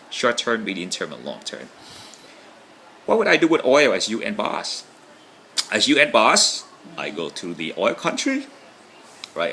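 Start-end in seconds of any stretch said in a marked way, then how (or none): 3.0-6.6 high, loud, showy boss voice; hammed-up loud announcer boss; fun put-on voice. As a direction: play the big important boss, high and loud. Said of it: "why do I talk like this".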